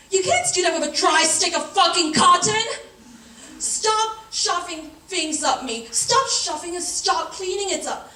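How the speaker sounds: loud, hammed-up indignation; indignant rant. Woman protesting what is shoved up her, indignant rant. Monologue rant about dry cotton.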